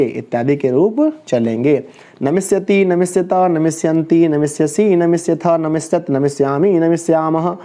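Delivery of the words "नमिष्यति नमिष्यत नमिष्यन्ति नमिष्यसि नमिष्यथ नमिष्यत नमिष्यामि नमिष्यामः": rhythmic verb-table drill; conjugation recitation. Shown as a demonstration. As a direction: rattle off the forms in an even chant. Teacher recites future verb table.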